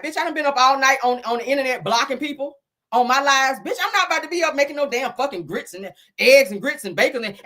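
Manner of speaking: half-sung impression of a singer; playful soul singer riff, lightly voiced. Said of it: "In my Jill Scott voice".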